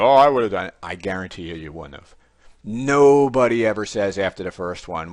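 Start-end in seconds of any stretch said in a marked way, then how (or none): 0.0-0.7 mock confident viewer. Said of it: "you're probably thinking".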